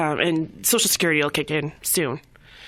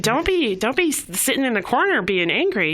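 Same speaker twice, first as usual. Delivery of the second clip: excited urging; 5 semitones higher than usual. Retold or imitated. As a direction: push him out of the corner. Urging client to stop sulking.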